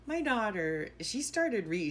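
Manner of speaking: ordinary talk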